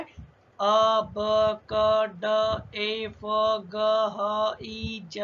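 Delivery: अ, ब, क said as short crisp sounds, one by one; letter sounds. Shown as a demonstration. Teacher sounding out letters for Hindi students, crisp. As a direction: sound out अ ब क ड फ ग ह ज slowly and separately. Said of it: "यानी कि किस तरीके से पढ़ना है".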